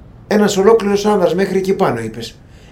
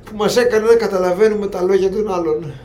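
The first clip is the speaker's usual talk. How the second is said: a slightly higher, wounded little creature voice; self-pitying creature; 4 semitones higher than usual. Acted. Trapped creature lamenting its fate, self-pitying. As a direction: sulk like a pitiful creature.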